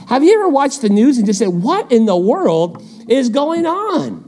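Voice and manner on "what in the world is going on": high, slow, incredulous question; baffled disbelief. Acted. Viewer reacting to the news, high drawn-out bafflement. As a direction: draw it out in mock bewilderment.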